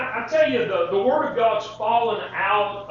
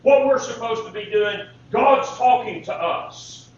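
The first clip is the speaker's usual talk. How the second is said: emphatic preaching; 6 dB louder than usual. Real, not acted.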